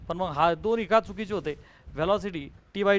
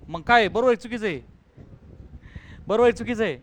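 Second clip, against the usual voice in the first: 1 impatient demand; 4 dB louder, faster than usual. Real, not acted. Teacher pressing student for answer.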